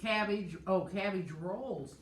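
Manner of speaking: loud, excited realization; sudden bright discovery. Real, not acted.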